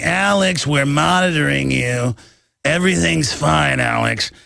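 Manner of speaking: lightly put-on secret agent voice; a hint of a mysterious spy; mimicking a famous spy. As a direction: imitate the spy's odd way of talking, half-joking. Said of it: "And he talks like that".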